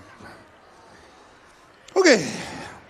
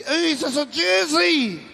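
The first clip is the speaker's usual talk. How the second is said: drawn-out delighted gasp; surprised; 7 semitones higher, slower than usual. Acted. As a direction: act amazed at the prize. Excited at the prize jersey.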